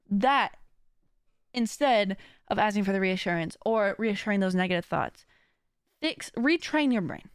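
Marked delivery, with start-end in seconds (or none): none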